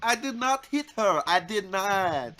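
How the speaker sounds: slow, loud mock Tommy Wiseau; Tommy Wiseau impression. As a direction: deliver it like a hammy bad actor. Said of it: "he's like".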